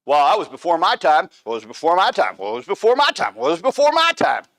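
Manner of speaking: mocking excuse. Mocking politicians dodging blame.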